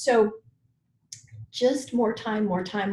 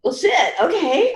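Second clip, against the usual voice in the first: resigned; 9 semitones higher, 5 dB louder, slower than usual. Retold or imitated. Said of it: "And I'm like".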